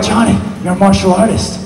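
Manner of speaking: inner martial artist. Retold or imitated. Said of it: "And then I'm like".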